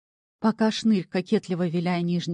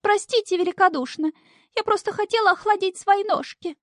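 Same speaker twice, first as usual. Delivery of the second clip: much higher, louder coy falsetto; fawning maiden; 14 semitones higher, 4 dB louder than usual. A narrator's reading. Imp disguised as girl fawning to bog master, coy falsetto. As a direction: simper it like a coy lady. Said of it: "заискивающе добавил".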